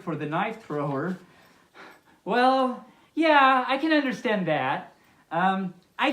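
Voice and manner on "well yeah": higher, louder exclaimed yeah; emphatic agreement. Real, not acted. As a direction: blurt out obvious agreement. Reacting to knife thrower.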